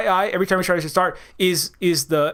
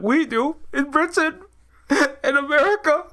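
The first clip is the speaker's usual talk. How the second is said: mock retort rising higher into a laugh; 6 semitones higher than usual. Comic answering hypocritical pity for others, laughing retort. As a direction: crack up while making the point.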